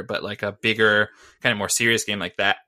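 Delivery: talking through hiccups; words broken by hiccups. Real, not acted. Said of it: "excuse me, I got the hiccups".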